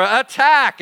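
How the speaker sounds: mock battle cry; retold holler. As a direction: call the charge like a kid general. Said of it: "Billy would holler".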